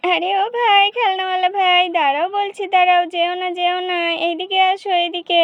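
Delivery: put-on little girl calling the toy seller; child calling out. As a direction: shout for the toy man to stop. Child calls seller back.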